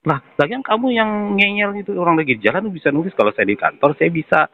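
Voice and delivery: retold angry outburst. Customer re-enacting telling off the collector, exasperated. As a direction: scold her like she just won't get it. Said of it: "terus dia marah-marah ke saya gitu".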